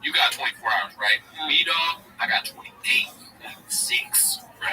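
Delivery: lightly voiced bro podcaster bragging; Schultz impression. Mimicking a podcaster bragging to fans, lightly voiced bro. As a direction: hype up your grind like a podcast bro. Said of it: "Schultz is his character".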